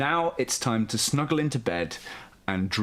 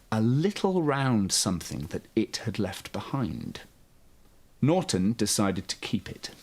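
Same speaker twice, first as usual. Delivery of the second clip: gentle, lively storybook reading; bedtime story narration. A narrator's reading. Host reading a bedtime story to young children, soothing storyteller. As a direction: read it like a children's picture book at bedtime.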